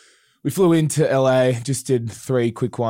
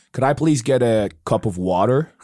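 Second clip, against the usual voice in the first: "Could I please get a cup of water?" with flattened vowels and American r's; flattened American accent; 2 semitones higher, 3 dB louder than usual. Retold or imitated. Aussie band member imitating an American order: flattened American accent. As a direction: flatten it out the American way, a bit louder. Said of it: "When you flatten it out".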